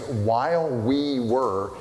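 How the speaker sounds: "while we were" drawn out slowly, word by word; slow down and spell out "while we were"; deliberate, slowed "while we were"; emphasized phrase. Shown as a demonstration. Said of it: "the phrase".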